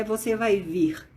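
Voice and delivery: "você vai vir" said slowly and carefully; slow, careful demo of the correct form. Shown as a demonstration. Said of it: "de acordo com o correto".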